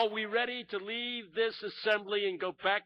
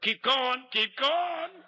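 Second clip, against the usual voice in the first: congregation yelling; 4 semitones higher, much slower than usual. Retold or imitated. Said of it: "Somebody yelled".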